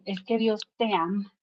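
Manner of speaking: softly, matter-of-fact retold child; imitating child's naturalness. Son telling the barber God loves him, imitated unembarrassed simplicity. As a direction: say it simply and softly, without embarrassment. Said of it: "con la mayor naturalidad del mundo".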